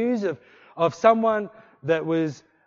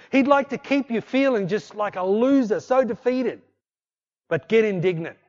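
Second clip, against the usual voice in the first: loud, driving exhortation; preaching at full force; 4 semitones higher, 5 dB louder than usual. Acted. Pastor urging the congregation on with a loud, driving voice. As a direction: push them out of the corner.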